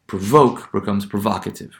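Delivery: long O in "provoke", short O in "provocative"; long to short vowel. Shown as a demonstration. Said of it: "no longer be pronounced as the long value".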